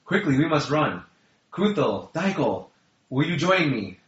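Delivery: high, loud urgent dwarf; ridiculously high voice. Acted. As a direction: squeak out the alarm in a high voice. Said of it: "it was way too high".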